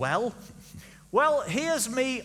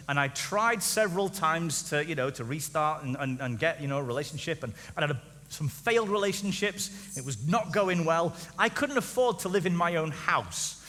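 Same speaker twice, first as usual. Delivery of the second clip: mock sad story; 4 semitones lower, 3 dB quieter than usual. Reads sad story quietly.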